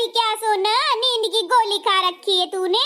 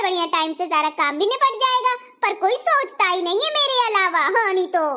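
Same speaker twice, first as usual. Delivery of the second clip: sulky elder bahu. Acted. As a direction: complain like a pampered bahu.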